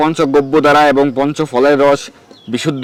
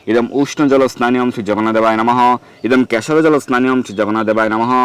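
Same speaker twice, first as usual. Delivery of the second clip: mantra recitation. Shown as a demonstration. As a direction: intone the Sanskrit offering formula steadily. (মন্ত্র পাঠের টানা সুরে)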